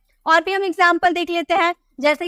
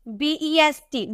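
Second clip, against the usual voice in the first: slow spelling; 3 dB quieter, slower than usual. Shown as a demonstration. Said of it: "spelled letter by letter".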